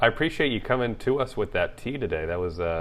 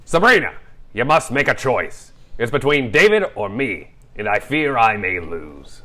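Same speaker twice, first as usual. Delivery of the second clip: dramatic leading man; 6 dB louder than usual. Acted. Dramatic Linus line in script reading.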